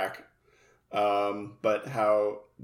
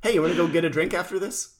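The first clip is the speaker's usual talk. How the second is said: put-on wholesome kid voice; 3 semitones higher, faster than usual. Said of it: "voicing Yugi kindly".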